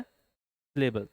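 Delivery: a teacher spelling out the key term for the class; drawn-out answer. Shown as a demonstration. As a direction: stretch out सिलेबल very slowly and let it fall. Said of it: "क्या बोला जाता है?".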